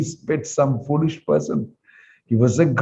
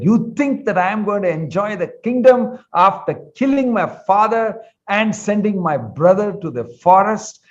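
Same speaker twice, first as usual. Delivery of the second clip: screaming; 5 semitones higher than usual. Acted. Bharata refusing the kingdom, ranting higher at his mother. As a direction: rail at her without pause. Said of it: "The Ramayana describes him scream like that".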